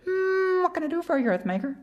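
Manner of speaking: very high, buzzing insect voice; high whiny mosquito, eager to help; tiny mosquito voice. Acted. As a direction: squeak it like a little mosquito. Mosquito's voice in story.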